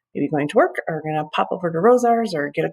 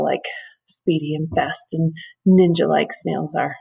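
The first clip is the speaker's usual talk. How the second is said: sarcastic whisper. Real, not acted. Sarcastic aside about fast snails.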